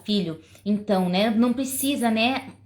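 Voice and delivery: irritated parent. Shown as a demonstration. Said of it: "Já fala assim, mostrando o que você tá sentindo".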